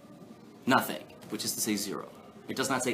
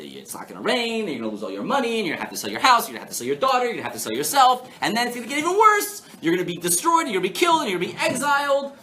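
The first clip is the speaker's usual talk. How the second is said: reciting curses; 9 semitones higher, 5 dB louder, faster than usual. Acted. Teacher acting out Torah curses for the class, escalating. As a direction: list of dooms escalating to high, loud alarm. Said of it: "what the blessings and curses sound like".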